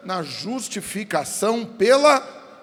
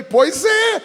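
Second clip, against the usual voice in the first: emphatic shout; 12 semitones higher, 6 dB louder than usual. Real, not acted. Preacher answering objection emphatically.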